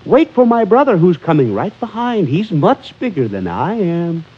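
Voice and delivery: little goat voice. Acted. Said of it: "Little Billy Goat Gruff said".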